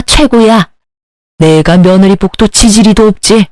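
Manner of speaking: lightly voiced disapproving mother-in-law; scolding mother-in-law. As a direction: berate the daughter-in-law with weary contempt. 시어머니가 며느리를 나무람. (며느리를 나무라는 시어머니 말투)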